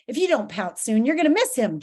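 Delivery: urgent, lightly voiced goading; mildly sinister prodding; hissed urging. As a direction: egg the monster on. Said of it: "Jive hissed".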